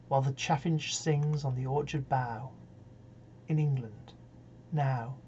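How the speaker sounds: measured reading that opens strongly and softens; poetry recitation. Acted. Reader giving Browning's Home Thoughts from Abroad, measured recitation. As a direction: recite wistful verse with unhurried pauses. Reads a poem aloud.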